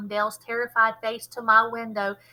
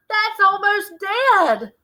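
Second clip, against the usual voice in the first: slow wail; 10 semitones higher, 6 dB louder, much slower than usual. Acted. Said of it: "he wailed".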